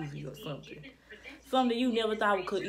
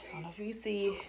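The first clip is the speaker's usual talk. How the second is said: unvoiced whisper aside; 5 dB quieter, much faster than usual. Real, not acted. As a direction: whisper it to the camera. Aside to camera.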